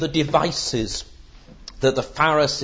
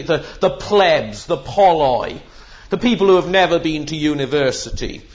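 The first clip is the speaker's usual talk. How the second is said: lightly mimicked superior scoffer; mock condescension of a self-styled intellectual; intellectual snobbery; 4 dB louder than usual. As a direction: start with emphatic disdain, easing into smug dismissal. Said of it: "they just appeal to intellectual snobbery".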